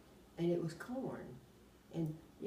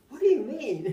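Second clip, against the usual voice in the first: puzzled question; 9 semitones higher, 12 dB louder than usual. Retold or imitated.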